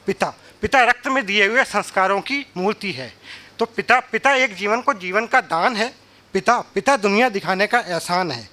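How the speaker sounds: declaimed ode to father, phrase by phrase; measured stage recital, pausing after each image; poem recitation. Acted. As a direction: recite it as rhythmic verse to an audience.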